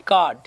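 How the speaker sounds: कार्ड as "kaad", R dropped; silent R. Shown as a demonstration. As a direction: say कार्ड with a long "aa" and no R. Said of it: "ये र की sound आएगी नहीं". (कार्ड, र की आवाज़ के बिना)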